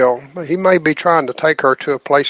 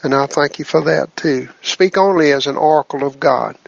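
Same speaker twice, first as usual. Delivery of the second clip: prayer. Acted. Leads group prayer.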